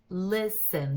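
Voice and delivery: LIS-en, weight on the first syllable of "listen"; stress on first syllable. Shown as a demonstration. Teacher showing where the stress falls, first syllable stressed. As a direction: lean on LIS in "listen", let the end drop. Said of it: "the stress is on the first syllable".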